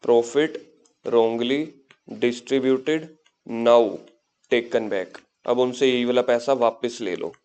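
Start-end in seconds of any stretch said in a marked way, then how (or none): 0.0-5.2 "profit", "wrongly", "distributed" said one at a time with pauses; dictating word by word. Real, not acted. Dictates the point while writing it. ("profit", "wrongly", "distributed": एक-एक शब्द रुककर, लिखवाते हुए)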